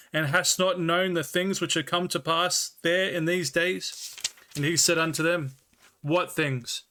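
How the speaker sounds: measured, slightly slowed scripture reading; Bible reading. Acted. Streamer reading the Bible to chat, measured and slowed. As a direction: read the King James text with care.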